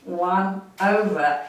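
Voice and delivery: slow counting cue. Shown as a demonstration. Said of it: "Each side".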